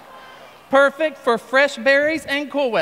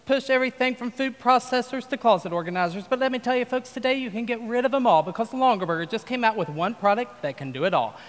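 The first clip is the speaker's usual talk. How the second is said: folksy TV pitchman selling hard; infomercial pitch. Acted. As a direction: pitch it like a late-night infomercial host.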